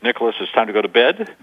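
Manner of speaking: "bed" lifted like a question; rising version. Shown as a demonstration. Coach contrasts a parent asking, rising on bed. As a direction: make "Nicholas, it's time to go to bed" a question. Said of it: "They didn't say".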